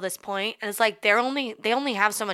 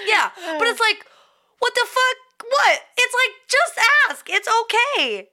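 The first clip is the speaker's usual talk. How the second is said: laughing; 13 semitones higher, 4 dB louder than usual. Real, not acted. High laughing rant, just ask.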